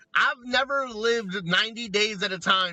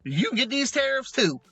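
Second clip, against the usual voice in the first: mock China comeback; 8 semitones higher than usual. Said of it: "And China was like".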